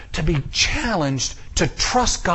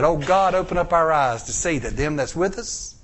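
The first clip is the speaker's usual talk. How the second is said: prophet's prayer; 4 semitones lower than usual. Retold or imitated. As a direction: pray it low. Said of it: "pray like the prophet did".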